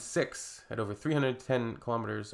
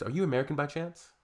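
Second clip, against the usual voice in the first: sarcastic catchphrase; 4 semitones higher, faster than usual. Real, not acted. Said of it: "the new phrase".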